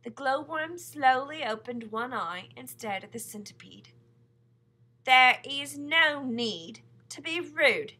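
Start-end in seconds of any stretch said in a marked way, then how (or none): 5.0-7.9 cold. A narrator's reading. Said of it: "she said coldly".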